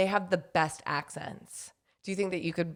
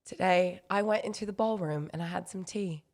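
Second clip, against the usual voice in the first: English accent; 5 dB quieter than usual. Shown as a demonstration. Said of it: "You go".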